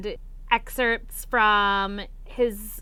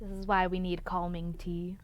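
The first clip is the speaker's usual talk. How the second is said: whisper; 4 semitones lower, 9 dB quieter than usual. Pretend. Joking aside after a mini rant.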